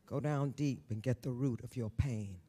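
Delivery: quiet urging. Real, not acted. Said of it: "repeated quiet advice".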